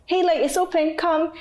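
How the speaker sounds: inviting. Retold or imitated. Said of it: "They're like".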